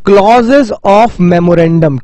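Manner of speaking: "clauses of memorandum" drawn out very slowly, each word separate; slow emphasis on key term. Shown as a demonstration. Teacher spells out the key term slowly for students. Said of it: "जिसे हम बोलते हैं".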